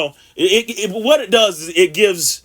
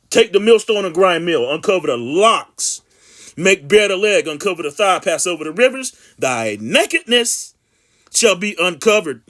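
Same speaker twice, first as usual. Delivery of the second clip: scripture reading. Acted. Reads scripture aloud.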